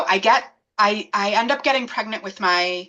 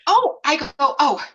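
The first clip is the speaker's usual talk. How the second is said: higher-pitched breezy retelling of a casual reply; no big deal; 6 semitones higher than usual. Retold or imitated. Telling the obstetrician why she's at the hospital, casually. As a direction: toss it off as nothing much. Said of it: "I said it like, no big deal".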